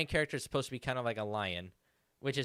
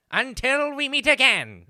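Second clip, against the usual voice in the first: put-on cartoon villain voice; 12 semitones higher, 11 dB louder than usual. Asked by the other speaker to do it again, he repeats it in a Skeletor voice. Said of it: "Do it again".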